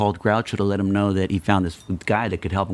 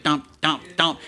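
punchy vocal thumps, pitched up; spaced, higher-pitched beats mimicking the band; imitated band hits; 7 semitones higher, slower than usual. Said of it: "the band just like".

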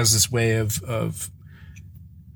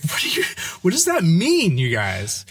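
mock confused dad; 6 semitones higher than usual. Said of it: "I was like".

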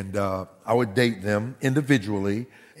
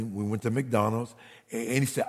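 ordinary talk, nothing marked

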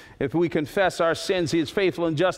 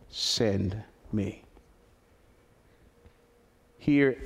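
hushed closing appeal; 5 semitones lower, 4 dB quieter than usual. Acted. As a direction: draw them in gently over the music. Soft closing over music.

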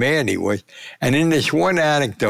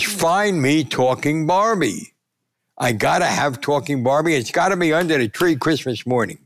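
insist, pitch raised; retold urgent demand; 4 semitones higher than usual. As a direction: play a boss who must have it. Father demanding a toy from staff.

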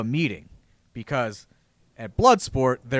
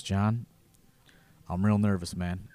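quiet nervous Tracy; 5 semitones lower, 6 dB quieter than usual. Retold or imitated.

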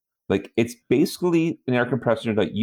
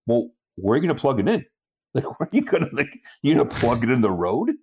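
laughing retort; 4 semitones higher, much faster than usual. Retold or imitated.

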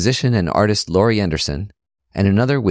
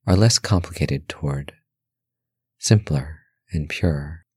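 guided meditation; 4 semitones lower than usual. Acted.

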